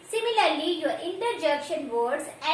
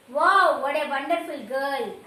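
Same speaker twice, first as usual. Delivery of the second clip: loud, delighted wow then admiring; teacher shows joyful wonder with a loud wow; excited wow; 3 semitones lower, 4 dB louder than usual. Shown as a demonstration. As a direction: burst out with wonder at a girl. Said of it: "We say, right?".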